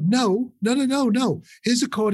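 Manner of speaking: retold, mildly exasperated refusal; mock objection. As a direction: cut in as if correcting a beginner. Retelling musicians' stern objection to punk.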